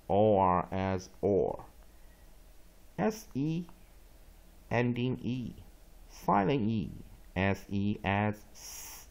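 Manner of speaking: slow, firmly voiced phonics chant; repeat drill. Shown as a demonstration. Teacher repeating the horse rules for learners, deliberate recitation drill. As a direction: spell and label each part, pausing between chunks.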